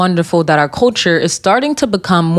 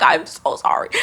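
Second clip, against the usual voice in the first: breathy whispered fake sorry; whispered mock apology; 4 dB quieter than usual. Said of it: "So I'd be like".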